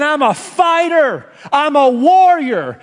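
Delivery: high, forceful mock boast; bold declaration.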